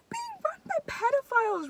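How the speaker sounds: high, hushed whisper; conspiratorial whisper. Real, not acted. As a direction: lean in and whisper it like a secret. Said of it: "conspiratorial aside".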